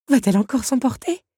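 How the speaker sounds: high, loud anxious question; dreading an outburst; worried wondering. A narrator's reading. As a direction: wonder nervously with a lifted voice. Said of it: "redouta la jeune femme".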